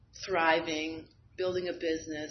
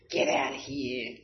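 lower, slow, through tears; choked up; 6 semitones lower than usual. Real, not acted. Answering her sponsor's praise, crying. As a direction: let the words catch as you cry.

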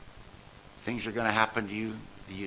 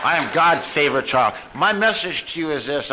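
emphatic proclamation; 3 semitones higher, 5 dB louder than usual. Real, not acted. Same line, now proclaimed.

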